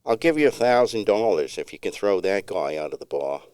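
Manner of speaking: put-on light Long Island accent on a bar bet; a hint of Long Island swagger in the offer; lightly voiced Long Island accent. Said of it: "in a Long Island accent".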